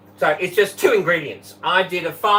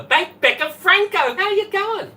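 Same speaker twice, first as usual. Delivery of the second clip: much higher, louder welcome; high sing-song greeting; 5 dB louder than usual. Real, not acted. Host welcoming livestream viewers, bright sing-song hello.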